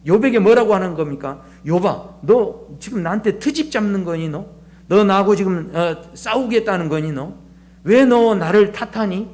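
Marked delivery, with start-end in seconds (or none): 1.7-9.3 God lightly reproaching Job; voiced lightly as a chiding challenge; mild scolding. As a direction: press each question as a restrained reproach. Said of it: "마치 욥을 나무라듯이 그렇게 말씀하십니다".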